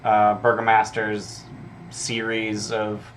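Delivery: a mildly bored, offhand townsfolk reply; uninterested. Acted. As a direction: shrug it off as if it's nothing special. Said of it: "play up that they're uninterested".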